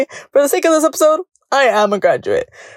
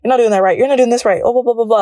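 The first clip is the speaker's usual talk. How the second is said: imitating meddling people; 4 semitones higher, much faster than usual. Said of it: "people from the outside are always trying to come in".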